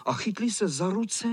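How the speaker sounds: usual speaking voice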